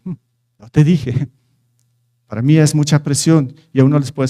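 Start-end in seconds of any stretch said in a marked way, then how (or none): 0.0-1.3 "yo te dije" stretched out very slowly, needling; a lingering mock reproach, "yo te dije"; slow taunting "told you so". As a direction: drag out "yo te dije" like a smug reproach. Mocking the reproach phrase.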